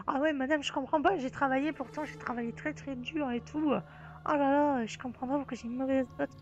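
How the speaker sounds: lightly voiced aggrieved pupil; complaining pupil. Pupil telling the teacher they studied hard, mock-aggrieved. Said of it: "Du genre".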